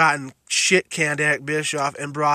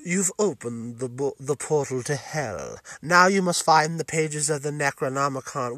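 game narrator voice; 2 semitones lower, 4 dB quieter than usual. Retold or imitated. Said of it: "there's none of this".

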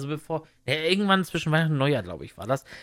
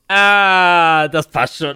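breezy self-quote; 11 dB louder, much slower than usual. Retold or imitated. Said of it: "Und ich denk so".

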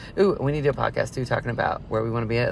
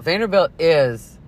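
snobby; 3 semitones higher, 5 dB louder, slower than usual. Real, not acted. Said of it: "Hair flip".

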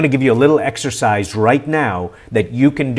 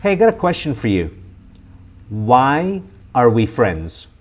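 friendly tone; 2 semitones lower than usual. Shown as a demonstration. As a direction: ask it like a friend catching up. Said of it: "ask them in a nice, friendly inflection tone".

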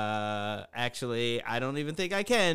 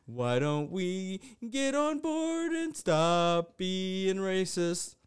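cartoon moral voice; 3 semitones higher than usual. Mocking himself as a cartoon preaching against racism, mild. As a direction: play it like a children's cartoon moral. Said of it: "I sound like I'm in a fucking cartoon".

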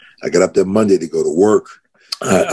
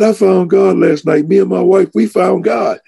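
excited; 12 semitones higher than usual. Retold or imitated. Running to hug the deacon.

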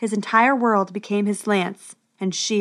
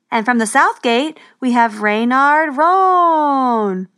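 drawn-out, very slow louder announcement; herald's announcement; 3 semitones higher, 5 dB louder, slower than usual. Acted. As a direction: stretch the name out for the crowd.

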